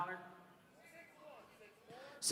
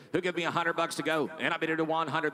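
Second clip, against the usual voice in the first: fast rhythmic auction chant; auctioneer; faster than usual. Real, not acted. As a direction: rattle off the bids like an auctioneer. Auction bid calling.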